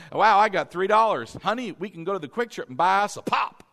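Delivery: mock excitement. Husband to honey about three dollars, mock excited. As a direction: play up the thrill over a tiny windfall. Voices an excited spender of cash.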